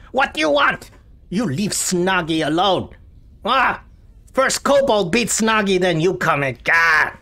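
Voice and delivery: high, loud, panicky squeal; terrified goblin. Acted. Terrified goblin Snoggy pleads with his captor, high, loud and panicked. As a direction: shriek in terror as the blade comes close. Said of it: "visibly very terrified".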